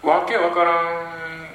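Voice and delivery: わけわからん drawn out slowly, high and loud; slow emphatic echo. Retold or imitated. Author echoing audience's complaint: わけわからん, slow and emphatic. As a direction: lean hard on each syllable of わけわからん.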